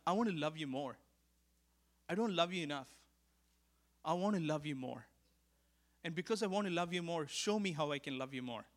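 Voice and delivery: quiet, tender plea to God; soft earnest prayer. Retold or imitated. Preacher retelling his prayer to the Father, softly earnest. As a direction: pray it softly, from the heart.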